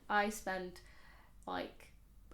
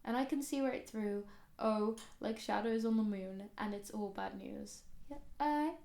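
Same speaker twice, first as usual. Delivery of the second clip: reading lyrics. Real, not acted. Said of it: "read out the lyrics".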